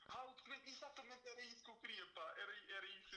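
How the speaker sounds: high, sudden remembering; excited realization. Real, not acted. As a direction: pitch jumps up as it clicks.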